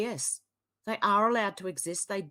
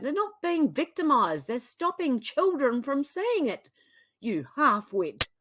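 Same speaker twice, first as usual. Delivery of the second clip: higher and louder, real anger snapping at the poster; angry outburst; 5 semitones higher, 5 dB louder than usual. Real, not acted. Commentator yelling at an online poster in anger. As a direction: tell off the poster, rising in fury. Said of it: "I'm sorry, I'm angry".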